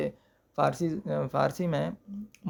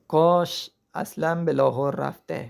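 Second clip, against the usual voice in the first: slow careful reading; slower than usual. Shown as a demonstration. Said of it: "اب دیکھیں میں اس کو کس طرح اس کا تلفظ کر رہا ہوں".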